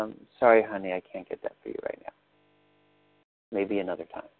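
soft, gentle words to a small daughter; kind and loving. Shown as a demonstration. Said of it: "is to kindly and lovingly say".

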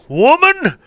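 high yelp then a loud, slow, drawn-out demand; lazy husband bellowing. Retold or imitated. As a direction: bark it at the wife like a couch king. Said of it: "I can just see all these guys now".

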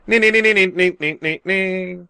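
high sing-song mock Chinese; mock Chinese gibberish. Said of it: "I thought that was racist".

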